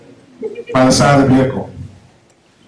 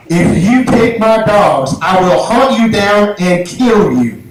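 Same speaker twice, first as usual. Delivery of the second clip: slow, deliberate threat; imitated owner's measured warning; menacing threat; 4 semitones higher, slower than usual. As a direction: spell out the threat slowly. Owner's slow threat, pointing at him.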